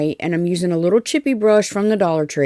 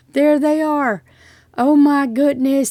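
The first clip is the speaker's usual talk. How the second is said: excited reveal; 8 semitones higher, 4 dB louder than usual. Real, not acted. Reveals finished blocks.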